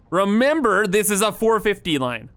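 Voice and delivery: all caps. Real, not acted. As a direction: shout it like it's written in capitals. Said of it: "No, all caps this".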